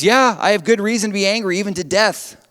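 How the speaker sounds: loud, high, heated comeback; Jonah's defiant retort. Acted. Jonah answers God defiantly, loud and heated. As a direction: throw it back in God's face.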